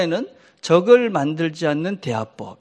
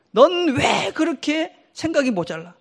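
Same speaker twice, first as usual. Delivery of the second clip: mock scolding; 7 semitones higher than usual. Shown as a demonstration. Scolding example to avoid.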